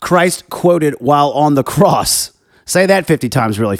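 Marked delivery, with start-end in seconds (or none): 0.0-2.3 slow, deliberate "Christ quoted" with each word clear; slow, careful retry of "Christ quoted"; careful retake. Real, not acted. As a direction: carefully enunciate "Christ quoted" so it doesn't trip. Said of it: "Wow, that's a tongue twister".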